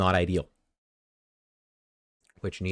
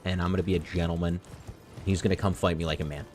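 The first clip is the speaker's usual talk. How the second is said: quick boss quote; faster than usual. Retold or imitated. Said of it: "He said".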